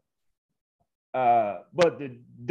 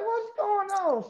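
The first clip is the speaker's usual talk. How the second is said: high, slow, baffled; bewildered; 4 dB quieter, slower than usual. Retold or imitated. Lost in the huge arena hallway, high slow bewilderment.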